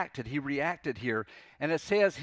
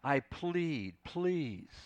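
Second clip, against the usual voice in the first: softer, halting plea, word by word; deep longing; 3 dB quieter, much slower than usual. Acted. Jonah begging the Lord to end it, longingly. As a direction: plead slowly, each word falling away. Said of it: "It's this deep longing".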